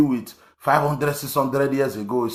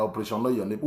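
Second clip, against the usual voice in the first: dismissive name-drop; 4 dB quieter, much faster than usual. Retold or imitated. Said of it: "You call it".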